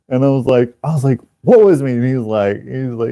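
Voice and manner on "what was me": high, indignant mock denial; feigned innocence. Culprit answering Alex's accusation, feigning innocence. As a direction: play dumb, pitched up.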